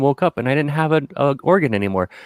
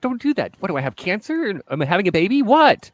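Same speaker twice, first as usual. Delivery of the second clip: panicked questions; 9 semitones higher than usual. Retold or imitated. To the tech, high mock panic. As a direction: fire off worried questions, high. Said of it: "I'm like".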